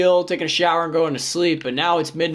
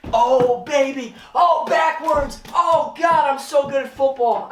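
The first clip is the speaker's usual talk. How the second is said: much higher, louder, gleeful whoops; celebrating; 11 semitones higher, 3 dB louder than usual. Real, not acted. After sinking a backwards shot, much higher gleeful celebration. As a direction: crow over the shot like a champion.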